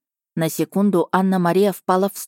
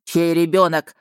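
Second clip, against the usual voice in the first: barking question. Acted. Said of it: "рявкнул тот".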